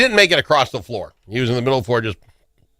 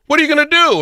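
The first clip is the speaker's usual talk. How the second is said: much higher, whiny imitation of the wife; high mock wife; 4 dB louder, faster than usual. Husband imitating his wife asking what he'll do, high and whiny. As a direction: pitch it way up to mock her worry.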